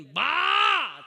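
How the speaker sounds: loud high call to mother; sudden loud shout of "બા!" across the fields. Retold or imitated. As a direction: call her from far away. Calling mother from far away.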